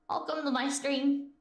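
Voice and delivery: slow hillbilly drawl; hillbilly accent. Shown as a demonstration. Streamer obliging chat with a greeting, hillbilly accent. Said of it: "speak in her native hillbilly".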